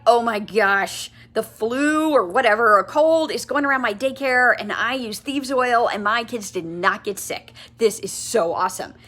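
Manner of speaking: bubbly, eager gush; enthusiastic. Shown as a demonstration. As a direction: sell it like you can't contain yourself. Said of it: "You see the enthusiasm?".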